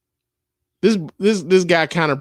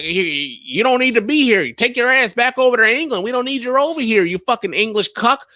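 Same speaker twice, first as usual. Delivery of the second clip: mock a Southern American telling an Englishman off; Southern guy voice; 9 semitones higher than usual. A fan imitating angry Southern Americans, loose Southern accent. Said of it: "I ain't got my Southern guy voice right now".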